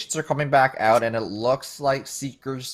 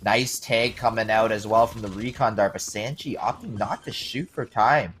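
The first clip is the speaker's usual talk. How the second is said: esports caster. Acted. Live play-by-play casting.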